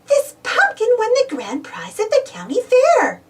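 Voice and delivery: high, proud Daisy. Acted. Daisy bragging about the prize pumpkin, high and proud. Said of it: "said Daisy".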